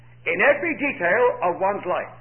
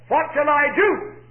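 "do" drawn out slow, high and louder; stress on do; 6 semitones higher, 4 dB louder than usual. Shown as a demonstration. Preacher voicing the lawyer's question to Jesus, slow and hard on "do". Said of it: "Note the emphasis here is on the word do".

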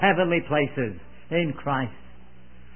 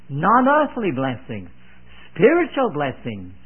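"earthly" and "spiritual" each leaned on, falling after; emphatic contrast; 4 semitones lower than usual. Real, not acted. Preacher contrasting "earthly" with "spiritual" blessings, stressing both words. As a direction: set "spiritual" firmly against "earthly", with a pause between. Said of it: "may I emphasize".

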